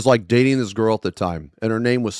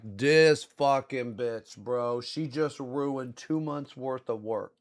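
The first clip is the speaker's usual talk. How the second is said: muttered frustration; 10 dB quieter, slower than usual. Retold or imitated. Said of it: "And I'm just like".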